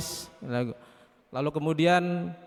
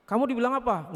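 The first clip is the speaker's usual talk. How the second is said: lightly voiced mother, higher pitch; questioning mother; 7 semitones higher than usual. Mother asking what was said, higher and probing. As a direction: probe the child, pitched up. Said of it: "ke ibunya".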